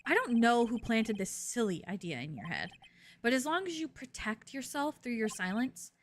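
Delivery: cool, pressing courtroom delivery; lightly voiced prosecutor. Prosecutor warning the witness, coolly pressing.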